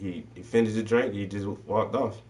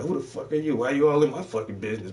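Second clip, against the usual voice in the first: rude snap; 6 semitones higher, faster than usual. Retold or imitated.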